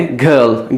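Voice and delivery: "गर्ल" with no r, long bird vowel; correct girl. Shown as a demonstration. Teacher giving the right "गर्ल" without r. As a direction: say "गर्ल" as gəl, r silent. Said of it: "नहीं बोलना है".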